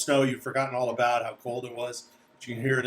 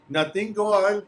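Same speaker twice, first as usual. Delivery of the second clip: raised, higher guide voice; wary ordering along; 8 semitones higher, 3 dB louder than usual. Acted. Guide to the little man he watches, wary ordering. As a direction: herd the little man onward.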